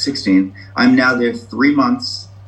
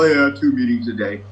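flippant. Retold or imitated. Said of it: "I say that so flippantly".

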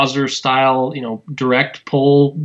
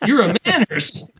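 starstruck; 5 semitones higher than usual. Retold or imitated. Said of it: "and you're like".

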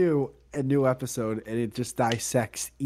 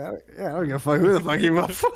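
put-on fast, couldn't-care-less kid voice; mock dismissive kid; 4 semitones higher, 4 dB louder, much faster than usual. Kid brushing off the angry man, fast mocking voice. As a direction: toss it off like a bored teen. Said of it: "He's like".

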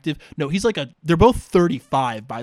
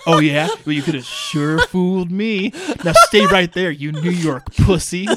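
hammed-up bully cop yelling at Joe, much louder; mock cop yelling; 3 semitones higher, 7 dB louder than usual. Cop mocks Joe as a New York pussy, hammed-up yelling. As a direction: bark it like a bullying cop mocking a New Yorker.

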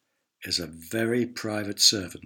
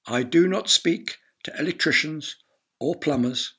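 raised, lofty lord's voice; haughty announcement; 4 semitones higher, 3 dB louder than usual. Acted. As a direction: announce it from on high, higher. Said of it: "announced the lord".

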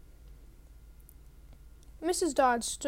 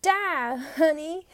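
loud, higher snarl; snarled shout; 3 semitones higher, 8 dB louder, much slower than usual. A narrator's reading. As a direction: snarl it as she attacks. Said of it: "She snarled".

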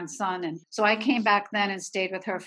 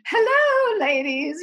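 much higher and louder sing-song greeting; a director in a flowing jacket greets the ladies, flamboyant; 11 semitones higher, 6 dB louder, slower than usual. Retold or imitated. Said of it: "was so flamboyant".

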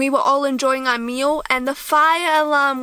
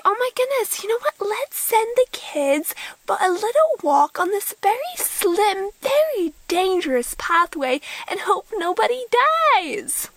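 sarcastic mock leader; 8 semitones higher than usual. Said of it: "mocking the camp leaders' idea".

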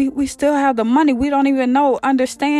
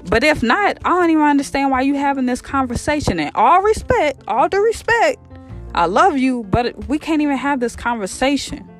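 high-pitched, indignant reasoning with a parent; mock-respectful protest from a fed-up son; acted exasperated pushback; 7 semitones higher than usual. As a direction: argue back, pitch climbing at the peak. Son argues firmly with old father.

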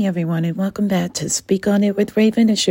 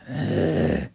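grumbling ugh; 4 semitones lower than usual. Acted. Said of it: "he grumbled".

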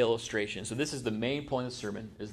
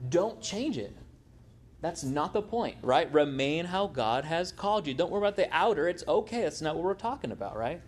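higher, earnest insistence as Paul; emphatic Paul; 4 semitones higher than usual. Retold or imitated. Paul urging converts, emphatic and raised in pitch. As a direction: press it home, pitched up and urgent. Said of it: "Paul is emphatically saying".

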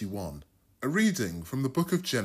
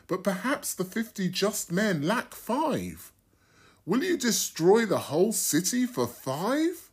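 Abraham, lightly voiced, pressing his case a bit higher; pleading Abraham; 6 semitones higher than usual. Abraham bargaining with the Lord for Sodom, mildly pleading. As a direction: plead earnestly for the just men.

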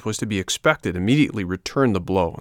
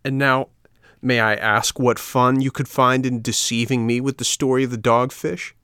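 indignant demand, pitched up a little; mildly angry, raised challenge; 4 semitones higher, 4 dB louder than usual. Acted. Puppet confronts friends who tricked him, angrily. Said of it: "he said to them angrily".

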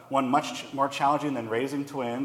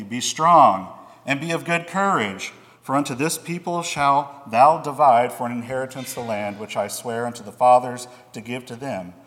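steady, slightly raised voice reading scripture aloud; 4 dB louder than usual. Acted. Pastor reading God's charge to Joshua to the congregation, solemn scripture reading. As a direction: read it like the Bible before the congregation.

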